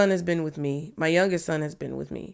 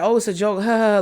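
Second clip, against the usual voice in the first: imitated brush-off with a put-on laugh; louder, mimicked joking laugh; mock laughing; 3 semitones higher, 4 dB louder, faster than usual. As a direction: play it off as a joke, ha-ha.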